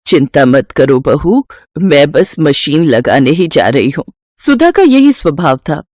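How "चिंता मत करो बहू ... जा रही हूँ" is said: calm her down humbly; meek old mother. Acted. Old mother answers daughter-in-law.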